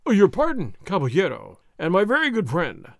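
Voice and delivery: loud, hurried apologetic outburst; alarmed cry. Acted. Sergeant hastily apologizing to the offended nobleman, alarmed. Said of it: "the alarmed Sergeant Gonzales cried".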